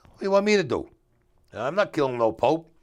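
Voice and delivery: loud, high disbelieving outburst; retold shocked refusal to his cousin; outraged protest. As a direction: blurt it out, horrified. Refusing the cousin's murder plan.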